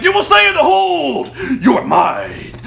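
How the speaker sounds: very high, loud possessive shout; mock ranting yell. Elder raging at his prisoner, hammed-up shout. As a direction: roar it like an unhinged captor. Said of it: "he's like".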